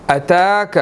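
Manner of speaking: اتاک with the long aa after ta drawn out; stretched vowel. Shown as a demonstration. Tajweed teacher shows the long vowel, stretched. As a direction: hold the vowel in اتاک for a full beat. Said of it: "تا کے اوپر کھڑی زبر ہے".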